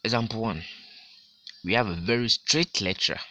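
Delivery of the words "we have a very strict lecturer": very strict lecturer, leaning on very; teacher stressing very. Shown as a demonstration. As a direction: punch the word very. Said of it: "this very here ... is being emphasized".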